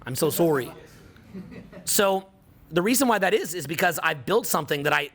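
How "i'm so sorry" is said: lower-pitched Canadian-accented apology; light Canadian accent, rounded "sorry". Shown as a demonstration. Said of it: "In my Canadian accent".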